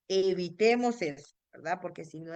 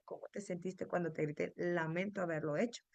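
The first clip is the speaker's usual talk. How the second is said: gentle apology; 2 semitones lower, 7 dB quieter than usual. Shown as a demonstration. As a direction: apologize tenderly, take your time. Parent asking child, apologizing.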